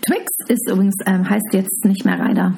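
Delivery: slurring, tipsy rambling. Real, not acted. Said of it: "Du bist total betrunken, oder?".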